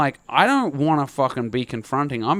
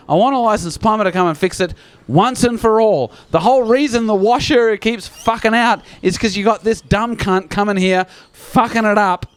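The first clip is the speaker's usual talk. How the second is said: worked-up, exasperated complaint, pitch raised; emotional rant; 4 semitones higher than usual. Retold or imitated. Tenant demanding a licensed plumber from Dominique, emotional rant. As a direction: rant heatedly at the property manager. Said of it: "Can you tell I'm emotional?".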